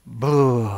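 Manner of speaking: low ghostly boo to scare; mock scary boo. Shown as a demonstration. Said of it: "I don't know what the one is for scared".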